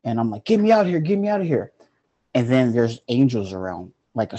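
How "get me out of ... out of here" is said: high-pitched panicked plea, re-enacted; scared pleading. Retelling being scared among the angels, high panicked pleading. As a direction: act out frightened begging to get away. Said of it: "I'm scared out of my mind".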